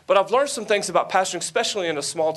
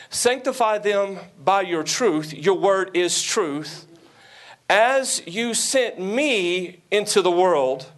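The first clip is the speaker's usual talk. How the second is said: scripture reading. Acted.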